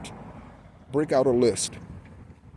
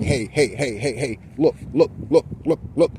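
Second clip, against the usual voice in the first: calling out urgently; 2 semitones higher than usual. Retold or imitated. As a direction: call out to get someone's attention before they pass it. Spirit calling out to listener.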